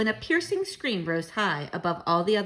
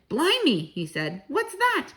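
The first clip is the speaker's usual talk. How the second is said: startled taxi driver; 6 semitones higher, 3 dB louder, slower than usual. Acted.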